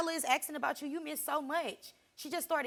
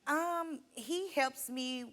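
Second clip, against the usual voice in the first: unsure; much slower than usual. Real, not acted. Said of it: "That don't sound too confident".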